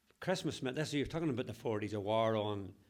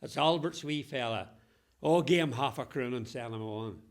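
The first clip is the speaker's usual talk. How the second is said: yells back; 6 dB louder than usual. Retold or imitated. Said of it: "he yells back".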